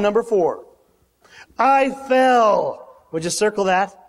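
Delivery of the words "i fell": a loud, high cry of I fell; exclaimed. Acted. John telling how he fell before Jesus, loud high cry. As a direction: burst it out in awe.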